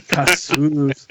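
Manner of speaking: "Cassius" drawn out with a hard American "s"; host testing his own American "Cassius". Shown as a demonstration. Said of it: "total American accent to say Cassius".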